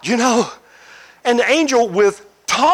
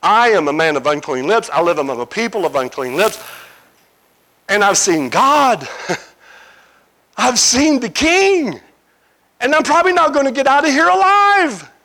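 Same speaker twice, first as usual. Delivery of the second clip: terrified Isaiah. Acted. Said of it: "He says".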